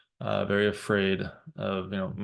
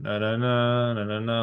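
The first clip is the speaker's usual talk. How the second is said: really gentle; 2 semitones higher than usual. Retold or imitated. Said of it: "like, really gentle".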